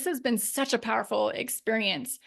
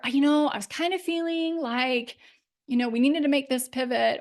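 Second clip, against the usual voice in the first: a put-on, unsure voice, opening high; timid hedging; 3 semitones higher than usual. Shown as a demonstration. Coach mimicking a woman watering down her message, timid put-on voice. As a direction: soften the point until it sounds weak. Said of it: "how I say these things".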